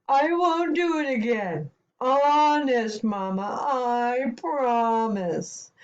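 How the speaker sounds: drawn-out, sheepish promise; whimpering plea. Acted. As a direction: plead like a scolded child. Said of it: "whimpered the giant".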